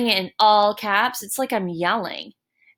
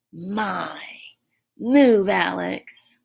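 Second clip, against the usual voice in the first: yelling demo; much slower than usual. Shown as a demonstration. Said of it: "Exclamation point".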